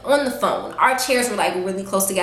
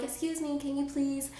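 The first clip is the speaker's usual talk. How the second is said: much softer, restrained "Excuse me"; polite and quiet; 4 semitones higher, 13 dB quieter than usual. Retold or imitated. At a fancy restaurant, politely asking a stranger, hushed. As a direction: keep it hushed and ladylike. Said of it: "Now, I'm being polite".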